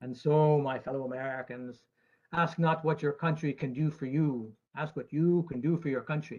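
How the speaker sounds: put-on oratorical Boston accent, strong opening then easing off; John F. Kennedy. Actuary reciting a famous presidential line to investors, Boston accent. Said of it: "that's my Boston accent".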